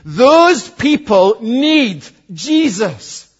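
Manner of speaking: slow and deliberate, each word weighed; Paul's burdened thought. Retold or imitated. Preacher voicing Paul's thoughts to the congregation, slow and burdened. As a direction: voice the apostle's heavy inner longing, lightly. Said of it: "here's his thinking".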